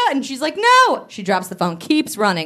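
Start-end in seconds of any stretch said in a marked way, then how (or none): 0.6-1.1 high-pitched retold cry of refusal; high, panicky imitation; mock panicked. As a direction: cry out as the cornered heroine. Retold heroine refuses the killer.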